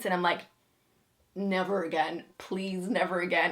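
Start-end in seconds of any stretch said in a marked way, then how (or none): none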